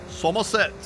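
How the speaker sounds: put-on Somerset regional accent; terrible Somerset accent. Streamer reading viewers' hometowns, terrible Somerset accent. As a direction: have a bad go at a Somerset accent. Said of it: "that was a terrible accent".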